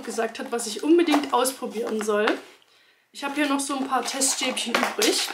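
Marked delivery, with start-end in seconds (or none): 3.1-5.3 talking with gum in mouth; slight lisp from chewing gum. Real, not acted. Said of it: "ich habe Kaugummi im Mund".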